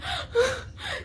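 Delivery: high mock sobbing gasp; soluço de choro imitado. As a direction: gasp as if bawling, half laughing. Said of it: "Eu saí assim". (soluço encenado, agudo, meio rindo)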